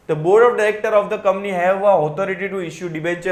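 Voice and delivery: measured textbook read-aloud; slow reading of the law. Acted. Teacher reading the SEBI rule to students, slow and even. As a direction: read the provision out slowly and evenly. Reading provision text slowly.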